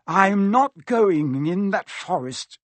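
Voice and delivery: high, drawn-out refusal; note of panic. A narrator's reading. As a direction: dig your heels in, scared. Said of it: "the note of panic in his voice".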